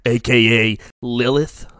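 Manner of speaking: low, slow tough-guy questioning; deliberate gambler voice; scary gambler. Acted. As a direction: spell it out slowly, like a heavy.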